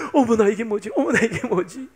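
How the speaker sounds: mildly acted startled wonder; lightly mimed "oh my" astonishment; acted amazement. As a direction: play a mother-to-be's puzzled surprise. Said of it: "놀랍기도 하면서".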